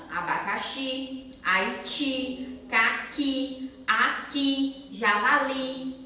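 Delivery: "abacaxi, Haiti, caqui, aqui, javali" each weighted on the final i; stress on last syllable. Shown as a demonstration. Teacher listing examples for children, last syllable stressed. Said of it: "a última é a mais forte".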